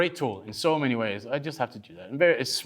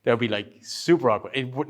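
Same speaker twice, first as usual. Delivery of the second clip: usual speaking voice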